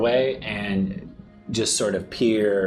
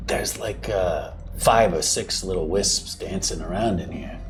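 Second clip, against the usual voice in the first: whispering. Acted. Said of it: "usually I'm the loud one".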